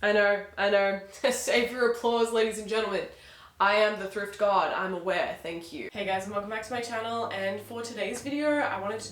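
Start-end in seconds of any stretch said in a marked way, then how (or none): 0.0-5.9 mock-grand self-congratulation; milking the applause. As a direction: soak up imaginary applause, hammy.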